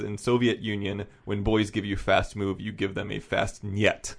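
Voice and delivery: put-on light comic Russian accent, deadpan; a hint of stage Russian; Yakov Smirnoff Russian accent. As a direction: deliver it as a Russian-accented punchline, slowing at the end. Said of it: "like, Yakov Smirnoff voice, she says".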